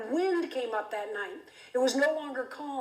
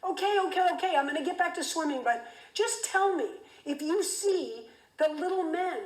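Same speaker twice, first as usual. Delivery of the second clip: yelling up; 5 semitones higher than usual. Retold or imitated. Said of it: "And I yelled up".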